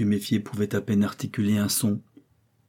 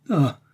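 frenzied cry; 6 semitones higher, 4 dB louder than usual. A narrator's reading. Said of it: "s'écria-t-il".

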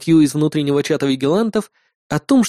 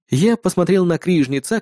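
plain reading voice

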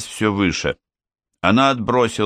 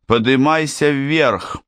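higher, slow shouted order; shouting; 8 semitones higher, slower than usual. Acted. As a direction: yell it up the stairs, urgent. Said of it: "закричала Мэг".

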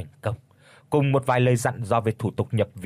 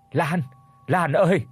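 wailing cry; 4 semitones higher than usual. Acted. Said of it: "gào khóc trước cửa".

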